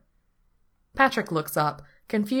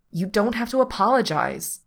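higher, louder, fierce insistence; 6 semitones higher, 5 dB louder than usual. A narrator's reading. Patrick stops Pete apologising on the drive, fierce. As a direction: firmly refuse the apology. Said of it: "Patrick says fiercely".

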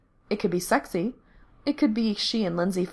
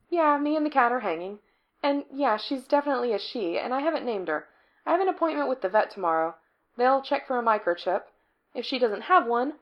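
Becky's voice; 6 semitones higher than usual. Acted. Narrator voices Becky at length.

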